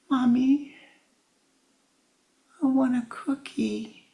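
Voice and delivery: put-on high child voice; child pleading. Crying boy asking mommy for a cookie.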